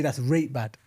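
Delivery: Yorkshire That's rate bad, rate for very; Yorkshire accent. Shown as a demonstration. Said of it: "they say".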